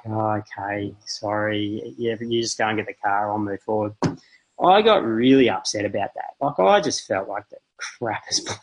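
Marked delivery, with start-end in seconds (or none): 0.1-3.9 softer, subdued mock contrition; retold sheepish apology. Husband blamed by his wife, sheepish retold apology. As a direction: back down meekly, voice dropped.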